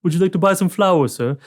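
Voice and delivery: lightly voiced cheerful villager; chirpy villager. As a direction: play a sweet flower seller offering her wares.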